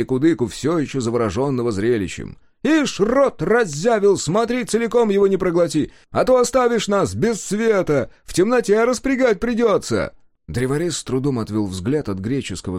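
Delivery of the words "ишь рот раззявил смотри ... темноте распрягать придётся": much higher, louder teasing voice; mocking carter. Carter mocking Kudyka for gaping at the sun, high and teasing. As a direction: poke fun at the open-mouthed gawker.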